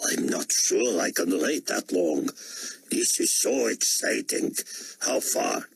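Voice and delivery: put-on slow, excited German accent; thrilled, can barely wait. A narrator's reading.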